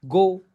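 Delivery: "गो" with an o glide; pronunciation demo. Shown as a demonstration. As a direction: model "गो" clearly. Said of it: "गो आप पढ़ रहे हो ऐसे". ("गो" का साफ़ उच्चारण)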